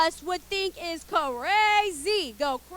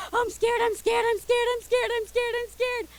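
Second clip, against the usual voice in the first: mock scared; 4 semitones higher than usual. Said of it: "I would close my eyes and go".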